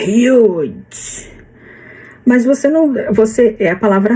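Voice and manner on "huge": Australian huge. Retold or imitated. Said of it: "ele falava".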